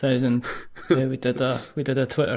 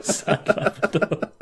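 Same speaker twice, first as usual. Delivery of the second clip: slow, laughing mock-sad label; mock sad Labrador; 4 semitones higher, slower than usual. Co-host captioning pictures of a Labrador, mock sad. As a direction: drag it out sadly through a laugh. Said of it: "and it's like".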